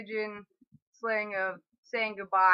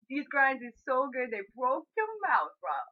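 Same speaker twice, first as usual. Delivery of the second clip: food praise; 3 semitones higher than usual. Acted.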